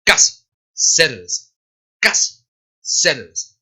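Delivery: "casi" with hard k, "cerveza" with hissed s; word by word, k in "casi", s in "cerveza"; hard versus soft C. Shown as a demonstration. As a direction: slowly contrast "casi" against "cerveza". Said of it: "no como la palabra cerveza".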